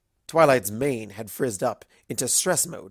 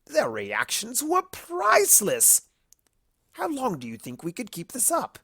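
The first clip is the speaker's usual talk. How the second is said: gleeful Discord; 11 semitones higher than usual. A narrator's reading. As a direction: relish it. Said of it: "Discord cackled".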